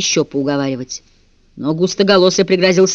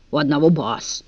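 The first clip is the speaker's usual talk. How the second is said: usual speaking voice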